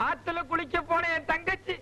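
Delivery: hammed-up weeping to win sympathy; fake sobbing. Young man fakes tears before the girl's parents, mock sobbing. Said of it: "அழாதப்பா".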